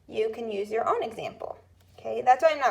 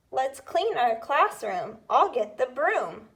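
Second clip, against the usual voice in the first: dictation read; 2 semitones higher than usual. Shown as a demonstration. Teacher reading a dictation rhyme to students, clear. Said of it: "The third one".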